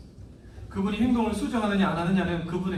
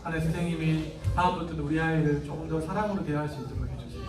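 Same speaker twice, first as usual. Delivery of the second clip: put-on soft, hushed prayer with the child; gentle prayer; 3 semitones lower, 3 dB quieter than usual. Shown as a demonstration. Parent praying beside upset child, soft and gentle. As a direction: pray tenderly, a bit quieter. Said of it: "하고 풀어줘야 돼요".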